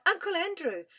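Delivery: put-on boy shouting the name he just remembered. A narrator's reading. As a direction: call the name out as memory hits. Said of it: "And he shouted out".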